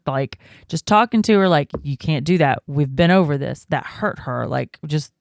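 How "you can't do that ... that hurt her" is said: plain, matter-of-fact reprimand; straightforward firm. Retold or imitated. Mother talks to toddler about biting, straightforward. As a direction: lay it out without fuss. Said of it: "just straightforward".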